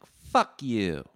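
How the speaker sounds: loud retold snap at the shop owner; mock fuck you. Podcaster retelling telling Gord off, loud mock snarl. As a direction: spit it out, faking contempt. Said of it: "I'm like".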